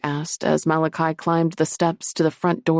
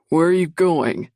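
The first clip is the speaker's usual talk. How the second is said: demanding; 5 dB louder than usual. A narrator's reading. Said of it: "the largest of the Lycans demanded".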